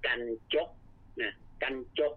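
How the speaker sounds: กันจก said with a clear กัน first syllable; Khmer pronunciation. Shown as a demonstration. Teacher demonstrating the Khmer word กันจก, carefully pronounced. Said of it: "โดยออกเสียงเป็น".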